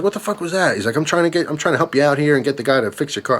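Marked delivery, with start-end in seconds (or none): 0.0-0.8 mild mock outrage, voice pitched up; pissed-off dad. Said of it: "my dad was pissed". 1.0-3.4 higher, exasperated retold protest; mildly fed-up pleading, pitched up; pissed-off dad. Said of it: "my dad was pissed".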